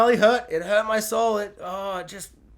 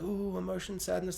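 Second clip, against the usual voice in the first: mock sad viewer; 14 dB quieter than usual. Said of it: "you're like".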